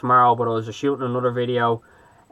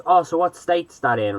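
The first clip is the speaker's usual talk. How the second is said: lightly imitated chatty stranger, pitched up; a hint of mock-friendly curiosity, higher voice; chatty American guy; 6 semitones higher than usual. Clueless shop guy quizzing Irish tourists, lightly imitated chatty. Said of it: "being real chatty".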